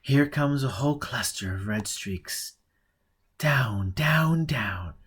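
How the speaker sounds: urgent. Acted. Olivia urges him during bombardment.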